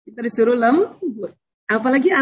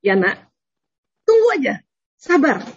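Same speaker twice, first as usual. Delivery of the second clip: patient mother; 3 semitones higher than usual. Retold or imitated. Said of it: "kita lihat".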